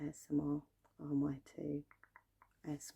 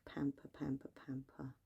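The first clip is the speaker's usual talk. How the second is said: whispering; 3 dB quieter than usual. Acted. ASMR repetition trigger.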